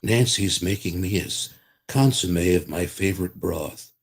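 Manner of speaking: folksy Reagan voice; Ronald Reagan voice. Shown as a demonstration. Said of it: "I used to do Ronald Reagan".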